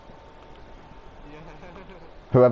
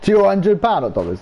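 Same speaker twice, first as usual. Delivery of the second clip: slow, high, drawn-out demand in a mock Chinese accent; 6 semitones higher, much slower than usual. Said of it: "the Chinese guy is like".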